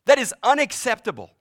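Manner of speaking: loud, high indignant protest; outraged cry. Retold or imitated. The judging heart crying out, loud and indignant. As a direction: cry out in self-righteous outrage. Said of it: "a place that cries out".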